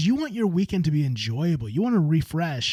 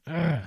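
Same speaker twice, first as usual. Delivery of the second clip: ugh. Shown as a demonstration. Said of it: "Frustration is kind of like a".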